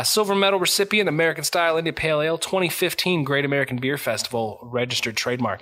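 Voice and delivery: announcer. Shown as a demonstration. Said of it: "I'm gonna say it again because a good beer deserves to be celebrated".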